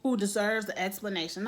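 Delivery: mock Lady Mae telling her off; sassy put-down. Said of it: "And Lady Mae is like".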